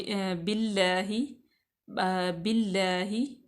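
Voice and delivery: बिल्लाही slow, with a light, thin lam. Shown as a demonstration. Teacher shows the thin lam after the kasra, slow demo. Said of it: "इसको हम बरीक पढ़ेंगे".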